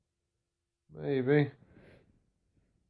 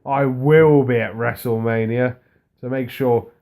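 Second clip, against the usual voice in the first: louder retold wrestler's challenge; mildly worked-up retelling, forceful at the start; fired up; 6 dB louder than usual. Podcaster retelling Seth's reply to a warning, fired up. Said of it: "got Seth fired up".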